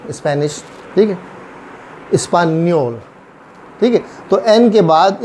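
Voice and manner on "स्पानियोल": "स्पानियोल" with n plus y; ny sound. Shown as a demonstration. Teacher modelling once more for learners, ny sound. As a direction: draw "स्पानियोल" out with its ny glide. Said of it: "एन और वाई की sound".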